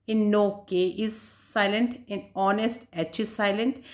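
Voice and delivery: very slow, word by word, for students to write down; slow dictation. Shown as a demonstration. Teacher dictating notes to students, very slow and even. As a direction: dictate the rule slowly so they can copy it.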